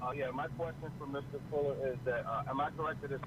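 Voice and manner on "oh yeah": usual speaking voice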